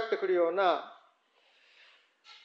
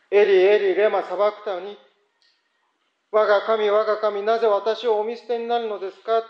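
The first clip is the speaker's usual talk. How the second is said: anguished cry. Acted. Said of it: "叫んでおられる言葉".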